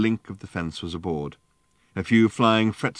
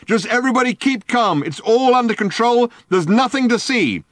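high, loud through a loudhailer; calm the crowd over a megaphone; 14 semitones higher, 7 dB louder than usual. A narrator's reading.

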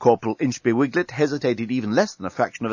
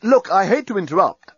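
high, urgent cut-in; interrupting; 9 semitones higher, 5 dB louder than usual. A narrator's reading. Journalist cutting into the captain's roll call, urgent interruption. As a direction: break in on the long list. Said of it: "interrupted the journalist".

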